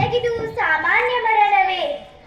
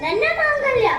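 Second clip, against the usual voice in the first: shocked gasp; 4 semitones higher than usual. Acted. Shocked by demand for mangalya.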